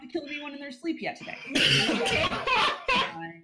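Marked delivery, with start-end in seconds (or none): 1.5-3.4 laughing. Real, not acted. Laughing through the words.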